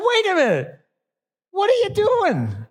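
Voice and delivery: mock Scottish lilt, lightly hammed; Scottish accent. Preacher mimics a seminary student's borrowed Scottish brogue, in a Scottish accent. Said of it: "I notice a Scottish accent".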